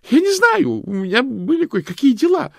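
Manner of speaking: very high, loud squeal; shrieked. A narrator's reading. Loretta squeals at Hanna, very high and loud. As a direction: squeal it out in panic. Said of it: "взвизгнула Лоретта".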